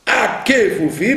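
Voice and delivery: Akefoufi slow, each syllable sounded; careful Akefoufi. Shown as a demonstration. Teacher reading the word to class, slowly. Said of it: "au début d'une syllabe".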